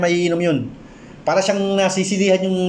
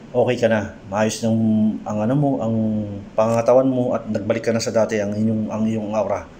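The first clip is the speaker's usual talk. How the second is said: lower, gentle reassurance to a frightened sister; reassuring; 7 semitones lower than usual. Retold or imitated. Healer comforting his sister after the cleansing, low and gentle.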